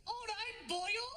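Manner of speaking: put-on Pakistani accent, high and bouncy. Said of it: "it's the same in Pakistani accent".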